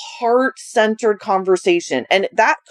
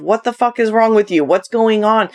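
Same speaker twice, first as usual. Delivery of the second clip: crass version. Shown as a demonstration. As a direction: say "fuck" bluntly and plainly, no softening. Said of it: "my more crass version of".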